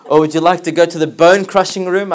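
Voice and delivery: asks through a real laugh, amused; laughing while asking. Real, not acted. Teacher jokingly offering students hell's rooms, laughing. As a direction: let the laugh spill into the question. Jokes about rooms in hell.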